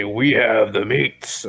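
"We have the meats." said slowly, "We" stressed; slow, deadpan pitch; slow suggestion. Shown as a demonstration. Offering a line, slow and deadpan. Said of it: "you could just say".

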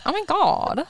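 high, breathless-style mock swoon. Retelling the girl's reaction to his confession, swooning. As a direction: gush it high, imitating her.

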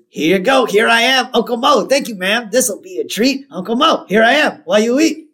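chirpy high-pitched waiter patter; lightly acted singsong announcement, high. Mo serving birthday fries, in a high, lively patter. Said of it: "now Mo jumps out".

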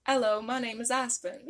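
tentative Australian accent attempt. Shown as a demonstration. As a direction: have a go at an Aussie accent. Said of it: "Australian English".

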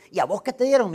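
high, loud gossipy asking; eager nosy question. Acted. One widow asking another about her gift, eager nosy question. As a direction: call it over to a friend, prying. Widows quizzing each other, acted.

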